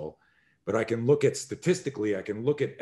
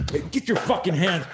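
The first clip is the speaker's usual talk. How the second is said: higher, louder aggressive bark; sudden shout; 7 semitones higher, 4 dB louder than usual. Retold or imitated. Instructor startling a table of martial artists with a sudden shout. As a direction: startle the room on purpose. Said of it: "I go like this and I go".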